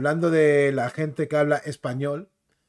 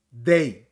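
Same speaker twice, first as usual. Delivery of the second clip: DAY said firmly, at lower pitch; emphasised final syllable; 5 semitones lower than usual. Shown as a demonstration. Isolating the last syllable for viewers, emphatic "day". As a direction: land hard and low on "day". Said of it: "Se matiza la última sílaba".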